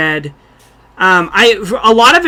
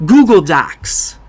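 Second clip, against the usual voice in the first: "Google Docs" even slower, with a hard fall on "Google"; Christopher Walken again; 3 semitones lower, slower than usual. Shown as a demonstration. Podcaster repeats his Walken "Google Docs" for friends, slower. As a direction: lean harder into the Walken pause on "Google Docs". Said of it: "anybody can do Christopher Walken if they say Google Docs".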